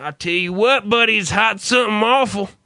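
lightly put-on Southern accent, chatty; mock Southern small talk, mild; bad Southern accent. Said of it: "such a really bad accent".

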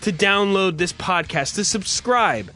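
punchy radio host welcome; show host intro. Acted. Host welcoming listeners to the Tuesday night show, radio hype. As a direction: announce the show with hype, leaning on key words.

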